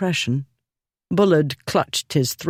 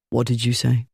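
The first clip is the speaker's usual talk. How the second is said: mild, amiable tone; 3 semitones lower, faster than usual. A narrator's reading. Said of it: "said in the mild, amiable tone".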